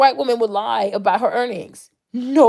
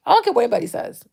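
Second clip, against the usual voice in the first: "I don't care what anybody says" pitched high and quicker; emphatic dismissal; 8 semitones higher, faster than usual. Real, not acted. Speaker dismissing what anybody says, high emphatic dismissal. Same words, quick then deliberate.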